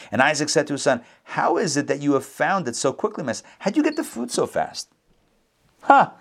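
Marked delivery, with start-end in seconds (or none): 1.2-6.1 mock-incredulous questioning, climbing high at the end; suspicious. Father quizzing the son about the quick meal, suspicious. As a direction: lightly act a father smelling a trick. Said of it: "He's so suspicious".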